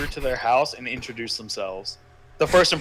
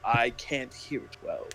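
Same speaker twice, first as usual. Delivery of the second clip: posh voice; 3 semitones higher than usual. Pretend. Mocking posh family titles.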